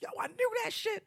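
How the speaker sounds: loose, slangy voice for a close friend; animated, casual code-switched talk; Chris, casual register. Retold or imitated. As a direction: mimic a guy dropping the polite act with his buddy. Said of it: "when he was talking to Rod".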